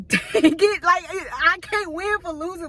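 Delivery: fed-up yelp of frustration; frustrated outburst. Retold or imitated. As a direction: vent it like nothing goes your way. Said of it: "I'm like".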